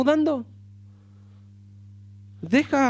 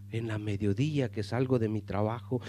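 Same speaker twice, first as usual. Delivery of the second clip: usual speaking voice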